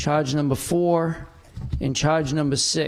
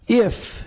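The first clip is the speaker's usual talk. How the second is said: If punched higher and louder; stress on if; 6 semitones higher, 4 dB louder than usual. Real, not acted. Council president stressing a hypothetical, If said high and loud. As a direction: hit the word If hard, then pause. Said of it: "again, I emphasize the word if".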